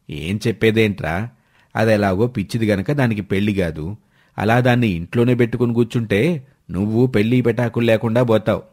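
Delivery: a hint of a scolding uncle, low; nagging uncle. Uncle warns his nephew.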